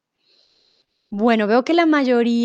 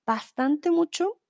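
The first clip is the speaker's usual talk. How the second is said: quoted error; 5 semitones higher, slower than usual. Shown as a demonstration. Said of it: "Bastante ya es un superlativo".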